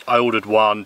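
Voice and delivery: usual speaking voice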